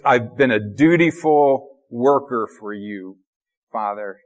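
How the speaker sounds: flat, slow worker's report; a hint of a hired hand reporting duty; dutiful worker. Older brother reporting duty to father like a hired worker. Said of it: "he doesn't sound like a son".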